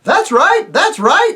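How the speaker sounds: high, loud, happy agreeing shout; the voices cheerfully agree with the boy; cheerful chorus. Acted. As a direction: cheer it out like eager yokels. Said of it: "said all the voices cheerfully".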